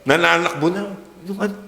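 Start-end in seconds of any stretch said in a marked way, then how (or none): 1.3-1.6 much higher put-on voice of a proud parent; sing-song brag, sending up the parent; mock doting parent. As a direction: parent boasting that their child is up front, mocked in a high voice. Mocking doting parent again.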